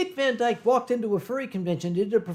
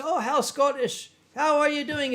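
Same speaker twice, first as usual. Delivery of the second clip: high-pitched, gushing mock greeting; visitor's greeting; 6 semitones higher than usual. Walking in on the Scottish friend, high mock-friendly greeting. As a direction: imitate an eager newcomer saying hello. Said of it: "you walk in and say".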